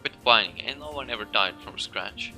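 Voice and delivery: put-on loud, gruff old woman; scolding. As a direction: snap at the boy.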